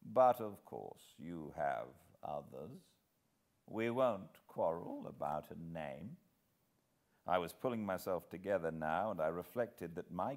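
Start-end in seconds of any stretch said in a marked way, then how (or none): 0.0-6.2 put-on smooth, amused old man; smiling old villain. Old villain to hero, a hint of amused smile. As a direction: let the smile sit in the voice. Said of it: "still smiling".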